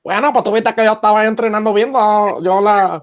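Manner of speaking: a lightly voiced Cuban boxer answering; mild mimic of the fighter, in Spanish; hint of Rigondeaux in an interview; Guillermo Rigondeaux voice. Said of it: "my Guillermo Rigondó, eh, impression".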